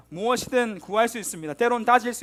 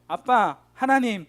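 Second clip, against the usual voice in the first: crying out to Father; 6 dB louder, slower than usual. Retold or imitated. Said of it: "이 말만 반복할 때도".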